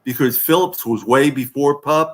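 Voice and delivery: slightly tipsy, words a bit slurred; slurring words. Real, not acted. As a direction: after a few drinks, loose diction. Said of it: "I've had a few drinks, so I'm slurring my words".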